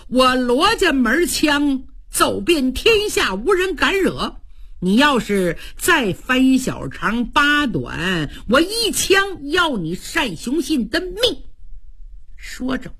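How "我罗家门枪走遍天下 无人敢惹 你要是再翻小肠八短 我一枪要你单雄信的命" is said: raised pitch on the boast; acted boastful threat. Luo Cheng warns Shan about his spear, boastful threat. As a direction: hammer out a warrior's warning.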